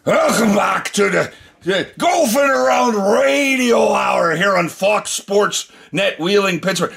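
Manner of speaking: put-on host trying a Scottish accent on air, coming out like a drunk pirate. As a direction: announce the radio show in a bad Scottish accent. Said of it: "I'm trying to do a Scottish accent".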